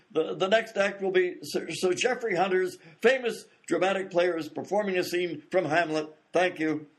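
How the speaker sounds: formal announcement with hesitant stumbles; flustered stage announcer. Acted. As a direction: announce it formally while scrambling for words. Announcer covers for the accident.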